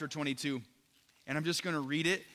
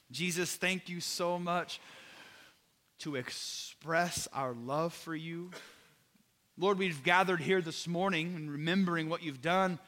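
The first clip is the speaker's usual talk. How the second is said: heartfelt prayer. Acted. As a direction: pray over the congregation, pleading and sincere. Closing prayer over music.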